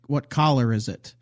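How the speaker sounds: color said as collar, ah vowel; Hoosier collar. Retold or imitated. Girlfriend's family asking about color, saying collar. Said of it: "instead of color, they say".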